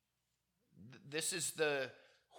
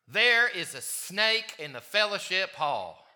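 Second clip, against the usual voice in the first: shrill anger; 4 semitones higher, 7 dB louder than usual. Retold or imitated. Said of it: "And she says".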